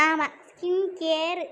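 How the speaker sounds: scoffing mimicry. Scoffing at sister's skincare talk.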